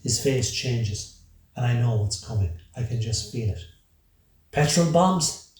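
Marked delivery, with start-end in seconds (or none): 4.5-5.5 loud, high, drawn-out shout; narrated cry of alarm, loud and high. A narrator's reading. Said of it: "he shouts".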